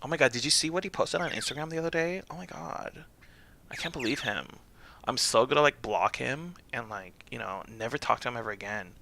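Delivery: lightly put-on Valley Girl gossip; a hint of scandalized Valley Girl; American Valley Girl. Shown as a demonstration. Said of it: "American Valley Girl".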